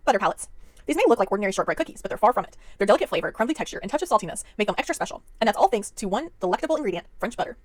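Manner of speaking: brisk product blurb read; card reading. Acted. Reads box card copy fast.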